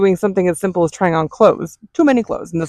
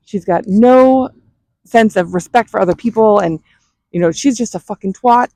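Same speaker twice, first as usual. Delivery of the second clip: imitated rant; 2 semitones higher than usual. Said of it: "she's, like, ranting, screaming about".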